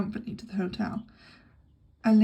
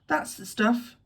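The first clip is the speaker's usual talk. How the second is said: approving; 3 semitones higher, 4 dB louder, slower than usual. Acted. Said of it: "said Jimmy approvingly".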